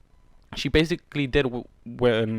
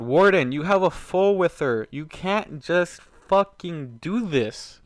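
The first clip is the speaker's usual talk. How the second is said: higher and slow, hammering each word; real angry scolding; 5 semitones higher, 4 dB louder, slower than usual. Real, not acted. Reader lecturing Warden to get his mind straight, slow angry scolding. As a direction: scold the character hard, slowly. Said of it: "I'm so upset right now".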